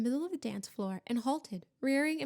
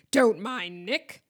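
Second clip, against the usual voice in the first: loud, slow, drawn-out call; shout; 7 dB louder, slower than usual. A narrator's reading. Huntsman's head dismisses his host, shouting. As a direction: call out heartily over the crowd. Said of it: "shouted Sir Patrick's head from the floor".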